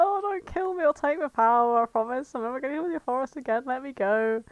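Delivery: lightly acted frightened begging, starting high; mock pleading. Trapped Sonic begging Knuckles for release, mock pleading. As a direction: imitate a scared kid begging.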